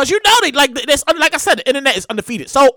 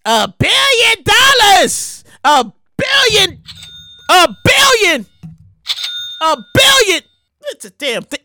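slow, higher amazed exclamations; astonished; 6 semitones higher, slower than usual. Real, not acted. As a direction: savor how huge it is. Astonished at jackpot size.

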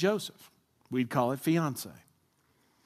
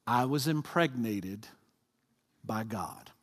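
sheepish confession; 5 semitones lower, 5 dB quieter, slower than usual. Acted. Fiance's awkward confession.

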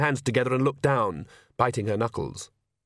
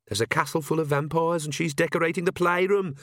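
higher-pitched, lightly voiced scornful Perdita; a touch of disbelief, pitched up; exasperated inner voice; 6 semitones higher than usual. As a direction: silent critic's incredulous aside.

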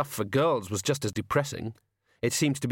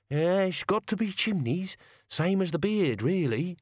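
put-on higher, rough old man; grumbling old servant; 7 semitones higher than usual. A narrator's reading. Albert speaks.

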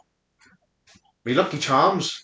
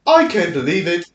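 mock African British accent. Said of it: "That's my African British".

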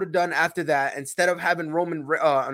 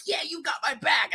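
mock excited shout as Seth; 8 semitones higher than usual. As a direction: shout it like a cocky wrestler. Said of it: "and then Seth was like".

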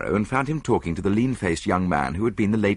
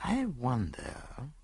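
very slow, much softer murmur; non-committal murmur; 7 semitones higher, 9 dB quieter, much slower than usual. A narrator's reading. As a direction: say it giving nothing away. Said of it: "said Poirot non-committally".

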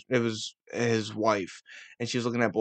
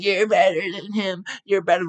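put-on drunk wife; 7 semitones higher, 4 dB louder than usual. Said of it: "his drunk wife comes over".

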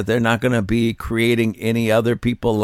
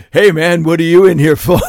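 inmate voice; 5 semitones higher, 7 dB louder than usual. Pretend. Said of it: "acted prison inmate dialogue".

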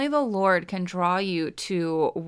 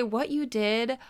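slow, hushed gratitude; slow, humble thank-you to God; humble prayer; slower than usual. Pretend. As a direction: pray it slowly, as if unworthy. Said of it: "that we would say".

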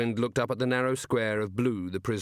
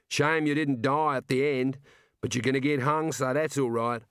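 lightly voiced Australian balladeer; explaining himself, mildly apologetic; a hint of an earnest Aussie songwriter; hidden ballad writer; 4 semitones higher than usual.

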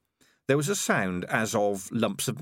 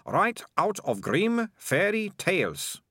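put-on higher, bright-eyed girl voice, confident; lightly voiced eager girl; 10 semitones higher, slower than usual. A narrator's reading. Malicia boasting to Morris, higher girl voice. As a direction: play the well-prepared young heroine, pitched up.

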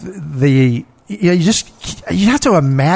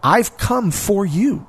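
tender Jesus; 7 semitones higher than usual. Retold or imitated. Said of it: "what Jesus shows them is".

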